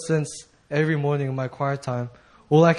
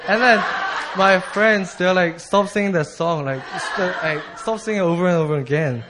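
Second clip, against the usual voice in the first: raised, loud animated retelling; excited retelling; 4 semitones higher, 4 dB louder than usual. Retold or imitated. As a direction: tell it loud and laughing. Friends told her stop singing.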